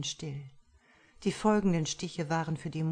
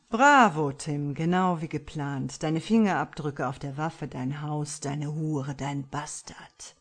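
mocking villain; 4 dB louder than usual. Killer mocking the framed husband.

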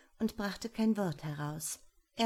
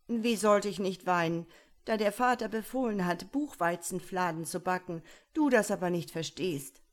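tearful Iwan; 5 dB louder than usual. Acted. Iwan pleading to his father, loud tearful lament. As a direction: complain it out, close to tears.

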